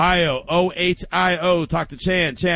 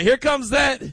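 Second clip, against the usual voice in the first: hammed-up excited caller; mock fired-up stammer; 7 semitones higher, slower than usual. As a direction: play him too pumped to find the word. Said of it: "he was like".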